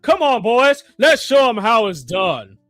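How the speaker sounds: laughing, gloating mockery; market makers mocking. The market laughing at the trader, gloating. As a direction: cackle at the foolish trader. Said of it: "Hey, market makers".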